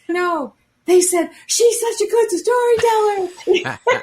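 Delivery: laughing. Real, not acted. Delighted quote, laughing high.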